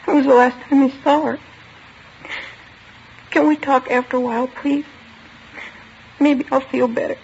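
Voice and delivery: put-on choked-up girl asking for a pause; tearful plea. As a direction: beg to stop before you break. Girl near tears asks to stop.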